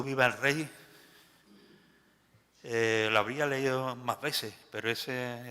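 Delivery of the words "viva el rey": louder cry. Shown as a demonstration. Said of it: "este grito".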